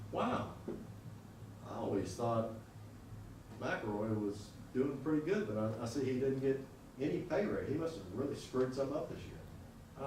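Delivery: softly voiced boss thinking aloud; musing boss. Boss reads the pay raise list, quietly musing. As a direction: muse to yourself, softly, with growing doubt.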